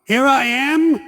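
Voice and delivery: high, loud indignant retort; hammed-up indignation; mock disbelief. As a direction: jump up in outraged surprise. Comic retort to the waiter.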